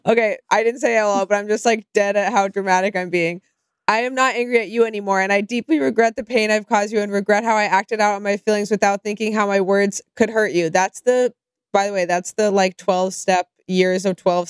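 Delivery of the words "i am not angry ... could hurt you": fast, recited apology; scripted tone. Retold or imitated. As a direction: reel it off like a memorized statement. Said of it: "this scripted, like, tone".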